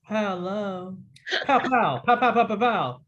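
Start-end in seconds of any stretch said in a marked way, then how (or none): 1.4-3.0 playful, louder pow pow. Real, not acted. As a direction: chant it like a game. Greeting Paolo with sound play.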